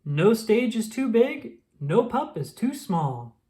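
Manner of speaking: slow, proud team motto; lightly voiced heroic catchphrase; rallying motto. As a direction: declare it like a hero's slogan. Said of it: "said Ryder".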